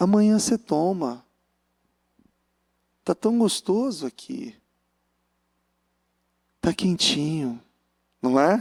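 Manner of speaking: gentle, lulling, smooth, soothing coaxing voice. Acting out a voice that coaxes staying in bed: soft soothing voice. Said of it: "Aquela voz suave".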